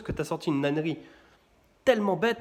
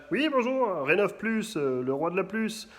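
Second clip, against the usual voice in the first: phone salesman; 4 semitones higher, slower than usual. Retold or imitated. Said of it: "et là".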